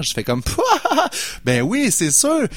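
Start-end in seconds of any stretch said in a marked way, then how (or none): 0.9-2.5 laughing hard through the words, slow; high burst of laughter. Retold or imitated. Host recalls laughing at the producer's request, laughing, slow. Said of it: "C'est là que je pars à rire".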